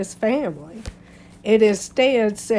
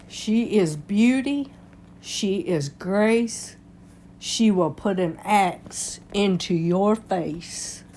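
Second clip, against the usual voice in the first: dramatic; 3 dB quieter, slower than usual. Pretend. Mock-epic tribute line.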